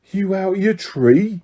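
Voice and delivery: shocked cockney yelp, slow and high; alarmed high yelp, drawn out. A narrator's reading. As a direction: jump out of your skin at the name. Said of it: "yelped Stan".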